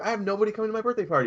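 high, fast, mock-whiny; hammed-up self-pity; whiny mock complaint. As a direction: rattle it off in a high put-upon voice. Sister mocked, retold complaint.

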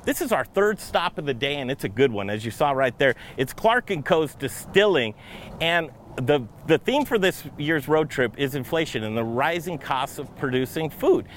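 bright, energetic host intro; upbeat travel show host. Acted. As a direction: welcome viewers like a TV host. Host opens the road trip show.

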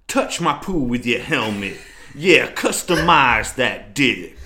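put-on botched Boston accent rap; failed Boston accent. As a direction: try a Boston accent and miss. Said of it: "I know that wasn't Boston".

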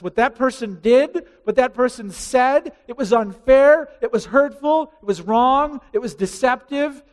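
mounting preacher's indignation; rising outrage. Acted. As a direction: list each wrong like an accusation. Building outrage over injustice.

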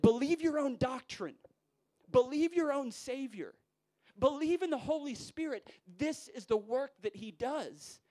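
high, loud pulpit proclamation; fervent exhortation. Retold or imitated. Spurgeon urging his student preachers to believe, fervent exhortation. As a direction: hammer each command home, slowing at the end.

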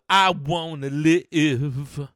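loud, very slow, drawn-out wail of words; dramatic outcry. Acted. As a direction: belt it out, stretching LIVE. Repeats it as an outcry.

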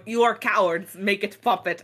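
put-on light generic Russian accent; a lightly done mock Russian accent; hint of a Russian-accented Herzog; Werner Herzog impression. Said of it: "I'm just doing a generic Russian accent".

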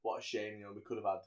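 low, soft murmured lament; mock regret. Voicing a gang leader over his fallen ally, soft mock regret. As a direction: softly voice a mild wistful regret. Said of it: "as if to say".

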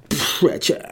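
a whispered lover's name. Retold or imitated. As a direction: breathe his name in lost love. Mock heartbroken inner voice.

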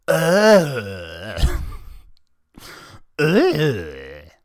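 loud, high, drawn-out scream; hammed-up "aaah" falling away; acted scream. A narrator's reading. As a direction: scream like a captive hero. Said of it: "screamed Mikey".

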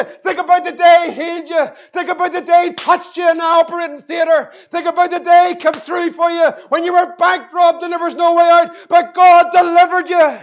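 building preaching fervor. Real, not acted.

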